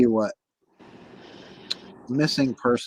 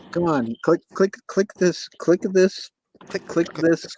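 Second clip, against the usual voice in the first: urging, excited; 7 semitones higher than usual. Real, not acted. Urging a guest to join.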